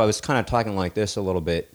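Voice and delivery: slightly odd talk around a splashed lip; weird mouth. Shown as a demonstration. Showing friends how he talked with dirty lip, weird mouth. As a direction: show a weird, careful way of talking. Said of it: "kinda was talking in this kind of weird".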